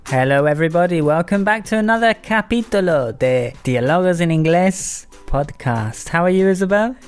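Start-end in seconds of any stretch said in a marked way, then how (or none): 1.0-6.1 English with Spanish words mixed in; spanglish. Real, not acted. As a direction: slip into Spanish mid-sentence. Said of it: "Sorry about the Spanglish".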